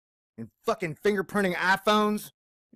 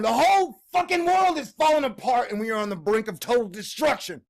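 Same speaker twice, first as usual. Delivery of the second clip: exasperated outburst; 4 semitones higher, 4 dB louder than usual. Retold or imitated. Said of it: "I'm over here going".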